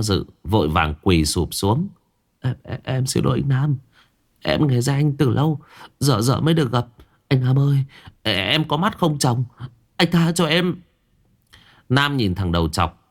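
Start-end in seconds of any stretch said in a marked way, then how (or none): 2.4-10.8 high, pleading, stammered apology; kneeling thug begs Nam for mercy; groveling plea. Acted. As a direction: beg on your knees.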